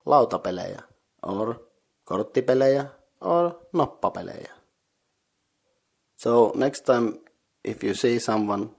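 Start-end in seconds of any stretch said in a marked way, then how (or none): 0.1-0.8 "lautapelejä" modelled clearly as a reply; Finnish answer demo. Shown as a demonstration. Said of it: "you can reply". 2.0-4.5 "korttipelejä" and "noppapelejä" listed on a higher pitch; Finnish answer demo. Shown as a demonstration. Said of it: "you can reply".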